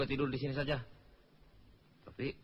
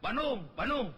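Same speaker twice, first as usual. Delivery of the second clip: high, swooping call for passengers; demonstrated tout's call; 9 semitones higher than usual. Shown as a demonstration. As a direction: show how a bus conductor calls the destination. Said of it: "teriak-teriak lagi". (contoh seruan kenek mencari penumpang)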